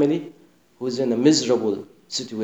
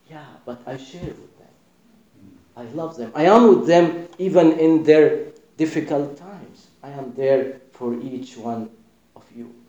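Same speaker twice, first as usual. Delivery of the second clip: tender reply. Acted. Jesus answers gently.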